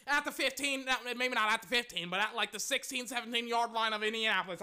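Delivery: breathless, running out of air; out of breath. Real, not acted. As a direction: talk while winded. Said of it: "I'm almost out of breath".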